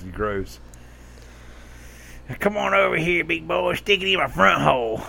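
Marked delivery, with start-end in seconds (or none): 2.4-5.0 mock seductive voice.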